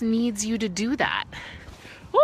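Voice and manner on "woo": startled cry; startled yelp. Real, not acted. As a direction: jump at a sudden fright. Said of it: "scared the crap out of me".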